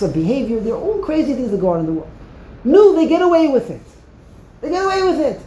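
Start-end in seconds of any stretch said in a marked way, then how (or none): 2.6-5.4 raised, loud protest at injustice; indignant outcry. Real, not acted. Preacher crying out against cheats. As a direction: cry out that they get away with it. Outraged complaint in sermon.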